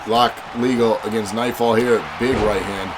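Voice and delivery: ordinary talk, nothing marked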